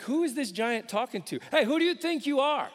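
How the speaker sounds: put-on young David defiantly yelling at Goliath; indignant shout. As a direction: call out the giant with outrage. David confronting Goliath, voiced.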